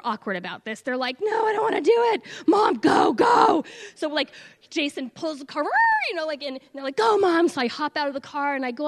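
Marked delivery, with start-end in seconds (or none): 1.2-3.7 put-on high, loud whiny kids refusing; kids protesting. Kids refusing, pushing mom out. 7.0-7.5 put-on high, loud kid voice pushing mom; kids urging.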